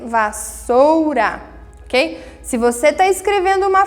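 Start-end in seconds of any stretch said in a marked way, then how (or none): 0.0-1.4 "vassoura" split slowly into syllables. Shown as a demonstration. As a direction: spell out "vassoura" beat by beat. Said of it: "E S S também".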